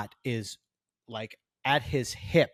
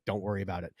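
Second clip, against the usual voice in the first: lower, softer calming voice; retold reassurance; 6 semitones lower, 9 dB quieter, much faster than usual. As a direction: wave it off gently and quietly. PA reassures him after scolding another.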